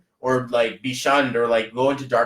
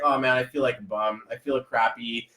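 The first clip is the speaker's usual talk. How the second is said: softer, slumped self-pity; mock dejection; 3 semitones lower, 5 dB quieter than usual. Acting out being dragged down by someone, glum and subdued. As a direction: sag into a mild mope. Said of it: "you're gonna be like".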